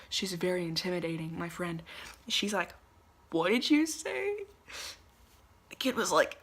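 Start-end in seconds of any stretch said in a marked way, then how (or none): 3.3-4.4 higher, louder, slow challenge; confronting demand. Retold or imitated. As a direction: square up to the kid and demand it slowly. Intimidating friend confronts swearing kid.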